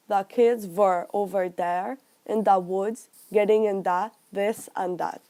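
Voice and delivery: "were" with a V, "there" and "the" with a D; low Lunenburg demo, "this and that" with D for TH; Lunenburg English pronunciation. Shown as a demonstration. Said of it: "pronounce the T H sound like D or T".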